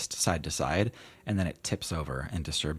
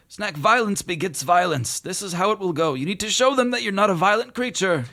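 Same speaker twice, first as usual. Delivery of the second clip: genie voice; 8 dB louder than usual. Acted. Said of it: "Genie says".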